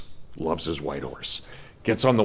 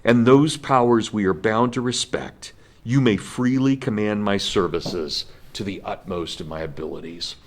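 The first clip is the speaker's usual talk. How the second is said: solemn speech reading; 3 semitones higher than usual. Retold or imitated. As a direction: read it as a grand formal address to the troops. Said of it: "I'm just gonna read you a couple of paragraphs".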